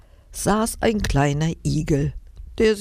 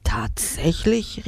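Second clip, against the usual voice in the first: astonished; slower than usual. Acted. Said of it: "rief Papa verblüfft".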